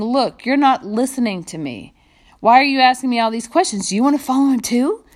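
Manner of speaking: quick, rising, exasperated; sarcastic. Acted. Healed man to the questioning Pharisees, sarcastic and quick. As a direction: fire the questions back at them. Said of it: "I think it's kind of sarcastic".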